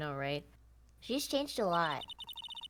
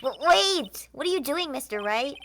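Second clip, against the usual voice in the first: high, loud startled cry; alarmed; 6 semitones higher, 8 dB louder than usual. Acted. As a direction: shout it in sudden alarm. Alarmed at handing over wallet.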